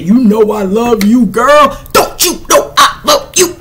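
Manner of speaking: high, crooning fake sweet talk; mock lover. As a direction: imitate the smooth liar pleading love. Mocking deceiver's love claims.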